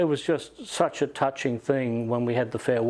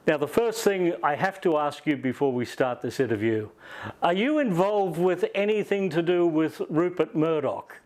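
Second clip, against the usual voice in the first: put-on Liverpudlian accent; 4 semitones higher than usual. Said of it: "Liverpudlian accent".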